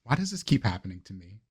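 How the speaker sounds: Sebastian blaming himself, voice sinking to near murmurs; Sebastian in anguish. Acted. Sebastian blames himself for the explosion, bitter self-reproach.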